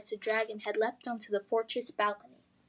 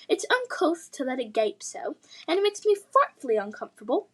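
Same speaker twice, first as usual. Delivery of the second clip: put-on posh English accent; 3 semitones higher than usual. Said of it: "posh English accent".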